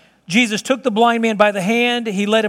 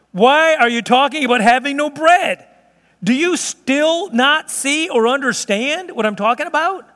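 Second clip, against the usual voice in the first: raised, exasperated questioning; apoplectic; 4 semitones higher than usual. Acted. Jesus scolding his disciples over the bread, apoplectic. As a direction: hammer out each question, higher, in exasperation. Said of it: "I think Jesus was probably apoplectic".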